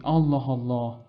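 exclaimed Allah Allah. Shown as a demonstration.

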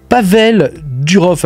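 "Pavel Durov" said slowly and deliberately; slow, careful "Pavel Durov"; careful pronunciation. Real, not acted. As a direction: take the name "Pavel Durov" slowly after stumbling on it. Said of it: "j'ai réussi à le dire".

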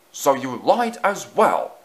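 loud, slow accusation; booming. A narrator's reading. Fat Controller catching Easton in a lie, booming. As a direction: boom it out, drawn out and stern. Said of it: "boomed the Fat Controller".

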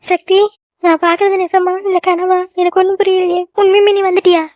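high, amazed, halting questions; stunned disbelief. Acted. Mother sees her son home unexpectedly, stunned disbelief. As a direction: gasp it out as if it might be a dream.

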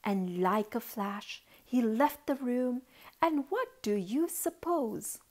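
lilting storybook reading; story narration. A narrator's reading. Auntie tells children of a boy and his ball, lilting narration. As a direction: tell it in measured, rhyming phrases.

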